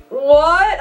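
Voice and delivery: high, rising mock shock; retold "did you really say that?" reaction; incredulous. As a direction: act out being taken aback. Acted reaction to date's insult.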